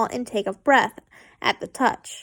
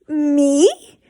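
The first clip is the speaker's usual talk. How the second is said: innocent; 4 dB louder than usual. A narrator's reading. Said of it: "he asked innocently".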